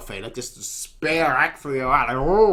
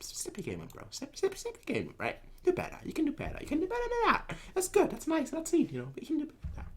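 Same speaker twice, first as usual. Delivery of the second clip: high mocking taunt; 12 semitones higher, 10 dB quieter, faster than usual. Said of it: "He's like".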